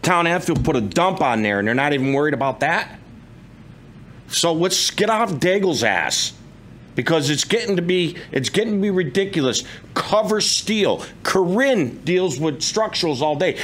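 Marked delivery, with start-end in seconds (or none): 4.3-13.6 real irritation, emphatic and insistent; exasperated, argumentative complaint; getting pissed. Real, not acted. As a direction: push each point, fed up. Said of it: "And I'm getting pissed".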